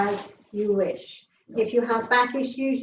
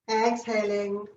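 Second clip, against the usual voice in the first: calm voice falling away on exhales; guided breathing; 3 dB quieter than usual. Real, not acted. Guides slow breathing exercise.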